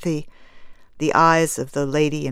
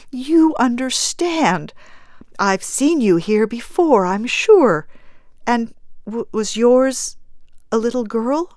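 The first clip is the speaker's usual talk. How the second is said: higher voice, hesitant toward the question; soft appeal; 6 semitones higher than usual. A narrator's reading. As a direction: appeal earnestly to a fellow mourner. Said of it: "she said softly".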